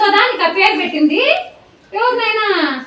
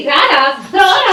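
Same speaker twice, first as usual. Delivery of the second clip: commanding call; 2 semitones higher, 4 dB louder, much slower than usual. Acted. Teacher orders the student forward.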